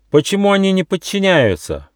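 high angry cry, green with rage; fairy screams in fury at the defiance; furious shout. A narrator's reading. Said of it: "закричала фея".

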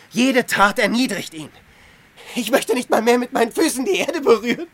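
fervent protest. Acted. Antonius passionately defends his asceticism to Hilarion. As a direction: argue with rising zeal.

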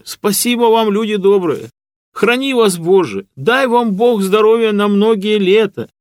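high, loud, slow outpouring of thanks; bowing and blessing them all at once; fervent serf blessing. A narrator's reading. Matvey bowing, thanking everyone. (горячо, громко и нараспев, с поклонами)

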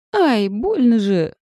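high, loud pained squeal; yelp. Acted. Client squeals under a hard massage, high and loud. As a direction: squeal as it hurts. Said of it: "взвизгнула я".

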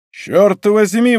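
high, drawn-out exclamation; emphatic outburst; exclaiming. A narrator's reading. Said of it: "воскликнул Д'Артаньян".

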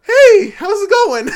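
very loud, high, drawn-out greeting; hammed-up panicked shout, slow and high; called-out greeting. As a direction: holler a stretched hello at a stranger. Nervously calling out to the intruder.

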